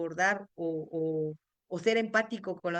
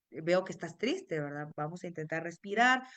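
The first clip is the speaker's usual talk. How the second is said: gentle validating; 3 semitones lower than usual. Retold or imitated. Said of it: "Al contrario".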